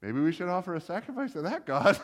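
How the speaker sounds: hesitant, climbing toward a questioning end; mock tentative suggestion. Awed sailors to each other after the fish, comically tentative. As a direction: float the idea gingerly, for laughs. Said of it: "the sailors are all kinda like".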